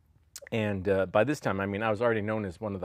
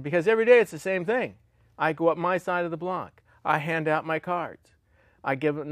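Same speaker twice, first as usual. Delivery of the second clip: father's complaint, higher and louder; a fed-up father venting, voice raised; exasperated dad; 5 semitones higher, 3 dB louder than usual. Retold or imitated. Dad's complaint retold to son.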